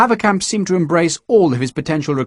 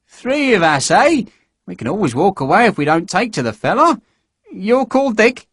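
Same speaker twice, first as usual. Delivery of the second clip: higher, lightly voiced eager little recruit; eager small man; 9 semitones higher than usual. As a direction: coax them along cheerfully.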